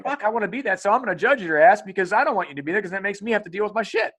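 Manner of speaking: mock griping, pushed up in pitch; resentful rant. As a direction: rattle it off like a jealous critic. Voicing resentful boomers judging others.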